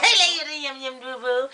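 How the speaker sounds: giggly imitation Chinese accent; caricatured Chinese-girl accent; mock Chinese accent. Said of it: "I turn into the little Chinese girl".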